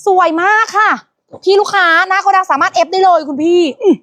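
high, eager sales praise; excited thanks. Real, not acted. Host thanks the customer at the warehouse, high and eager. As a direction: thank the buyer brightly.

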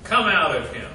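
Jesus rebuking the demon, stern and loud; stern command. Acted. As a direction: cast the spirit out with authority. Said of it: "said Jesus sternly".

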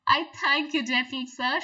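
lightly voiced fly, pleased and polite; a touch of a charmed little fly; flattered fly. Fly thanking the spider for his praise, pleased. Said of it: "she said".

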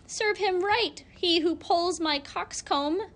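high, pleased rooster voice; gloating rooster. A narrator's reading. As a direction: gloat like a proud cock. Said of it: "crowed the cock".

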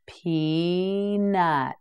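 Peanut drawn out slowly, each syllable clear; slow, stretched model. Shown as a demonstration. Teacher modelling Peanut slowly for learners. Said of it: "teacher models the word slowly".

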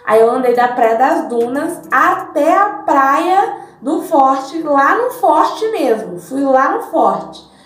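roomy bathroom echo; recorded inside a tiled bathroom. Real, not acted. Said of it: "pode ser que dê eco e fique um negócio pingando".

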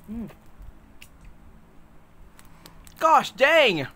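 talking while chewing; muffled mid-bite speech; mouth full, chewing. Real, not acted. Seen 4: Closed, full cheeks with jaw working after eating; chocolate not seen.

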